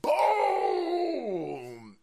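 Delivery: a very high long drawn yell; triumphant shout. Real, not acted. Streamer exulting over the clip, drawn-out shout. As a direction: shout it like a victory call.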